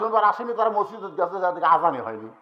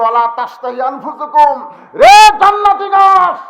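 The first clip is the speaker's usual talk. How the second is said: loud, higher proclamation that slows at the end; booming sermon delivery; preaching at full force; 3 semitones higher, 9 dB louder than usual. Acted. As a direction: declaim the pronouncement with full force. Preacher voicing Allah's pronouncement.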